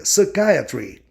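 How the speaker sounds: "psychiatry" with main stress on the "eye" syllable. Shown as a demonstration. Teacher summing up the stress rule, "psychiatry" stressed on KAI. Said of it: "a sílaba mais tônica".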